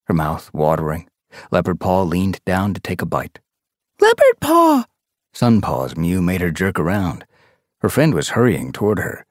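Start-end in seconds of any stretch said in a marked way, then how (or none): 4.0-4.8 high, loud shout of her name; calling her name. A narrator's reading. Sun Paw calls to her friend, a high loud shout. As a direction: yell across to grab her attention.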